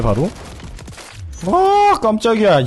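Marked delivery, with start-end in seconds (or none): 1.5-2.6 high sudden jump of fright; startled yelp. Real, not acted. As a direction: caught off guard, gasp it out. Startled by enemy close by. (깜짝 놀란 높은 외침)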